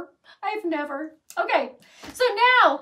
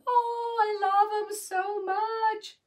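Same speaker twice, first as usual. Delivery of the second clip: gushing; 8 semitones higher, much slower than usual. Real, not acted. Gushing over finished bunny.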